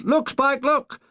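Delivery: high excited call; excited shout. Retold or imitated. Bombardier spotting the burning plane, high excited shout. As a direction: point and call out to Spike. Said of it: "Bombardier Sherwood shouted".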